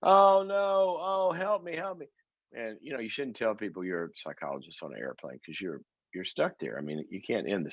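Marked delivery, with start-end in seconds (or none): 0.0-2.1 high, pleading woman on a plane; frantic woman. Retold or imitated. Seatmate begging psychologist about her boyfriend, high pleading voice. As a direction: beg for help in a high woman's voice. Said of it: "And she goes".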